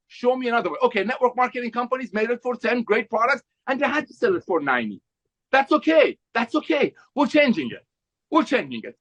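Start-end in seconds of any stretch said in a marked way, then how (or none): 5.5-9.0 worked-up, emphatic sales pitch; fired up, driving each short line home; real excitement, punchy repeated phrases; excited. Real, not acted. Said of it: "Someone's excited today".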